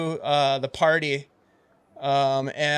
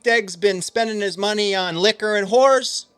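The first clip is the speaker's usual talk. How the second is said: Kyle; 6 semitones higher, 5 dB louder than usual. Acted. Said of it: "Kyle's like".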